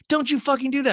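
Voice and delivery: high, loud mock outrage; Kyle. Recapper replaying an old shoving fight, mock angry yell. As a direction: snap it like a retold fight. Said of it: "Kyle's like".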